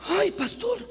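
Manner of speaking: hint of a caught man blurting it out; flustered excuse. Married man caught ogling, excusing himself to the pastor, flustered and fast. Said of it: "Y el hombre dice".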